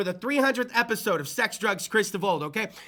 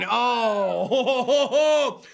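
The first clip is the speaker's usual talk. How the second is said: hearty laugh; 3 dB louder, much slower than usual. Real, not acted. Laughing at band name.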